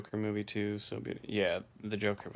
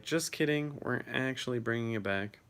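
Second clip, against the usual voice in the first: higher, lively pretend announcement; mock-cheery reversal, pitched up at the start; 3 semitones higher than usual. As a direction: play a network taking it all back. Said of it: "Just be like".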